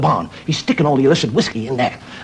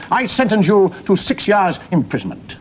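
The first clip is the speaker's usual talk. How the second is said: slow, higher judge's pronouncement; mock judge; 6 semitones higher, slower than usual. Judge sentencing a prisoner in a sketch, pronouncing. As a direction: hand down the sentence with courtroom weight.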